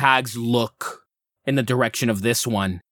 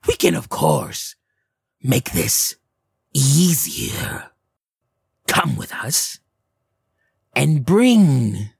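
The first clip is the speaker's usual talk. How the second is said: hag voice; 2 semitones higher, slower than usual. Acted. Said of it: "the one in gray goes".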